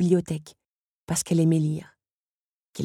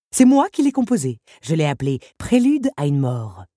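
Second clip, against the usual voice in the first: villain Henri; 4 dB louder than usual. Acted. Henri boasts to Belle, cruel and proud. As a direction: savour the title like a threat.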